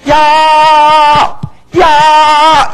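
loud high yell; shout. Acted. Saul silencing the women, loud high shout. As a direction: bark it out sharply, high and loud. What Saul should have yelled.

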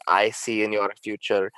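mystic seer predicting, rising; hammed-up psychic voice; fortune teller voice. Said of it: "I look like a fortune teller".

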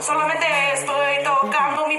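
high, hurried-denial student voice; put-on caught student; student in Spanish class. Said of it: "don't get in trouble in Spanish class".

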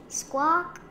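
loud, very high squawk; high storybook bird cry. A narrator's reading. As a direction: squawk the word like a startled bird.

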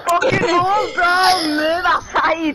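playful shout to move; half-joking yell to get out of the way; mock shove. Mock shoving friend aside.

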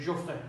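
"Je ferai" softly, "ferai" as one syllable, frai; contracted pronunciation. Shown as a demonstration. Teacher repeats the short form, "ferai" said quietly as frai. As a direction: drop the middle vowel of "ferai", falling at the end.

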